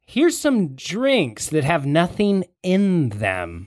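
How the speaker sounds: high, chummy, laughing buddy voice; friendly strongman. Acted. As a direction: schmooze the guards with a laugh.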